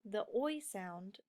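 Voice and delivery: oi drawn out slowly; slow oi sound. Shown as a demonstration. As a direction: stretch the vowel in oi. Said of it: "It's not the O".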